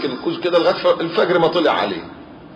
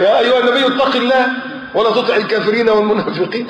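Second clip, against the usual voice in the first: emphatic raised recitation; 7 semitones higher than usual. Acted. Quoting Quran verse with emphasis.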